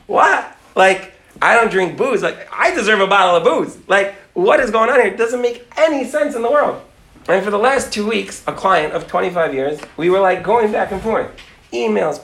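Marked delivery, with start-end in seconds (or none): 0.1-6.8 higher, incredulous retold reaction; shocked disbelief. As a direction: act out baffled outrage.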